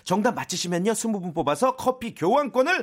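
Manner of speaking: quiz announcement. Acted. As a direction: read the quiz and entry details to listeners. Reads out listener quiz announcement.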